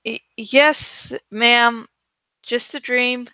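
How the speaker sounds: reassuring. Acted. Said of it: "Jake said reassuringly".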